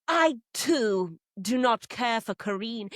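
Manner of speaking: lightly acted pronouncement, slow; mock-solemn statement, spacing out the words; deadpan formal. Player declaring dislike of Karine, mock solemn.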